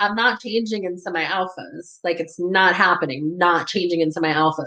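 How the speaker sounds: furious, angry, flat-out defiant tone. Retelling refusing an order from a superior: imitating own angry retort. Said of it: "I'm so angry that I'm like".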